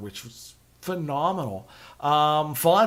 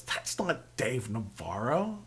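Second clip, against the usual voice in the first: wife correcting; 5 semitones lower, 8 dB quieter than usual. Retold or imitated. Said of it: "she goes".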